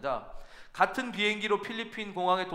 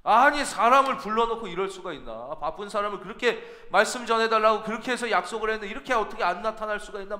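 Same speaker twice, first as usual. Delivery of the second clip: retold anger; 2 semitones higher, 3 dB louder than usual. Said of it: "막 화가 나더라는".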